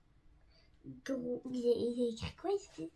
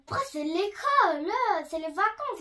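louder, higher protest about the school holidays; crying out; 4 semitones higher, 6 dB louder than usual. Real, not acted. Girl shouting at her sister that it's the holidays, loud protest. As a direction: raise your voice in protest. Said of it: "Pourquoi tu cries?".

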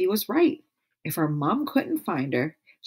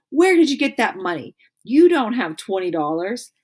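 accusing demand; 4 semitones higher, 4 dB louder than usual. Acted. Nancy accusing.

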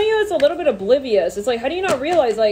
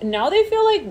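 ordinary talk

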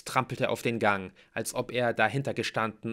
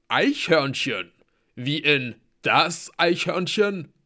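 slow, loud, raised voice; astonished warrior; 6 semitones higher, 8 dB louder, slower than usual. A narrator's reading. Halbgeboren checks it is that squirrel, slowly incredulous. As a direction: draw out the words in disbelief. Halbgeboren asks, taken aback.

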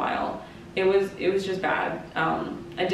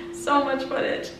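laughing; 5 semitones higher than usual. Real, not acted. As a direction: repeat it through a laugh, higher. Laughing repeat of previous line.

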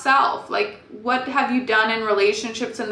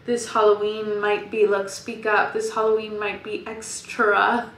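like telling a ghost story; spooky Halloween voice. Acted. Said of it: "I don't know why I'm talking like that".

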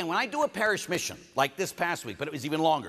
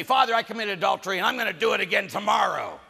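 loud, higher brazen confession; acted unrepentant penitent; 4 semitones higher, 6 dB louder than usual. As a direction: announce the sin without remorse. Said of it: "Father should not yell at you".

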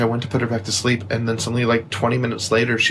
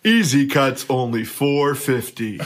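slow, deliberate announcer delivery; mock ad tagline. Host undercutting his own price in a mock ad, announcer pitch. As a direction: draw out the price like an advertiser. Performing a mock barber shop ad.

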